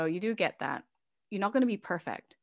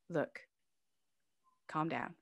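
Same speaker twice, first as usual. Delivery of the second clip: put-on softer, calming words to an upset child; soothing mother; 5 dB quieter than usual. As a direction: gently talk her down. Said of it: "and say".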